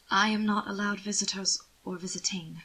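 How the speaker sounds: whispered, barely managing the words; frightened whisper. Acted. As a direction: breathe it out, scared to speak.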